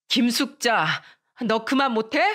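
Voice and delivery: indignant parental order, voice rising; stern scolding. Acted. Mother ordering her daughter to apologise, stern. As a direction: cut her short and demand an apology.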